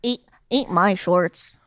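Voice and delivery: lightly voiced cartoon boy, slow; a hint of a bratty cartoon kid; Bart Simpson. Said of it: "I could do Bart Simpson's voice".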